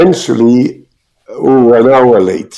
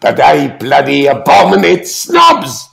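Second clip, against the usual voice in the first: punchline burst; 4 semitones higher than usual. Retold or imitated. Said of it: "leaned further in the microphone and he said".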